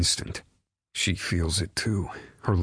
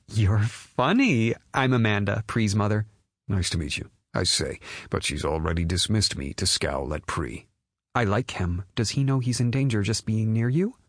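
mother voice; 4 semitones higher than usual. Acted. Mother voice continues.

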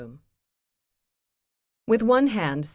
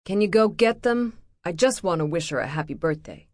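pleading; 5 dB louder than usual. Acted. Steve asks to reach daughter.

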